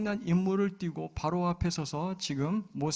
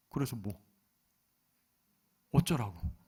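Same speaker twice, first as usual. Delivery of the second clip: dismissive; 4 semitones lower than usual. Retold or imitated. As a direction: shrug it off with contempt. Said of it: "무시하는 거예요". (무시하듯 시큰둥하게)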